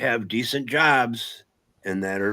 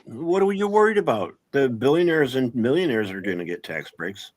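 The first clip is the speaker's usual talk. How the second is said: sarcastic mock reassurance, pitch jumping up. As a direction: scoff at the worry, then deliver it deadpan. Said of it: "I'm being f-, sarcastic".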